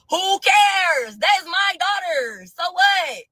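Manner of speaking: hammed-up careless bravado; mock dismissive shout. Voicing his careless thinking, mock scoffing.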